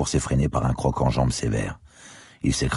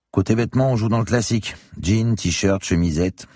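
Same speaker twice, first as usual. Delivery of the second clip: higher, impressed Crombé; Crombé's voice; 7 semitones higher, 3 dB louder than usual. Acted. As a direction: whistle at the pricey gear. Crombé character voice. (Crombé épaté, voix plus aiguë)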